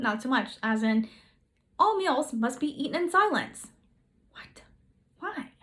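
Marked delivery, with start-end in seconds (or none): 4.3-4.6 breathless unvoiced what; whispered disbelief. Vlogger reacts to silent meals with a whispered what. 5.2-5.5 incredulous why. Acted. Mock disbelief at rule.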